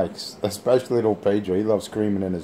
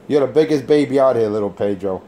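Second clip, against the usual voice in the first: louder taunt; 2 semitones higher, 5 dB louder than usual. Real, not acted. Jeering at little Pedro over the radio, loud taunt. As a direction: punch "biggest" to rub it in.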